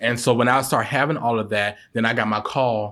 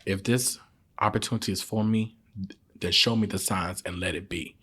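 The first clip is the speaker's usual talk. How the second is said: quiet prayer; 3 semitones lower, 7 dB quieter than usual. Shown as a demonstration.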